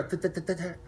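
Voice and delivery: soft mock engine stutter, tut tut; imitating engine cutting out. Telling friends how the car sounded, soft imitated engine stutter. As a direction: mimic the rev limiter popping quietly. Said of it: "I heard it go".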